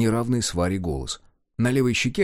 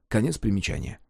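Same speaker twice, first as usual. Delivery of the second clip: usual speaking voice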